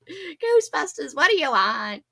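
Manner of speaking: half-hearted movie-line impression. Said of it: "I can't do it so good".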